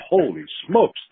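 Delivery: stunned disbelief. Retold or imitated. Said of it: "And I'm going".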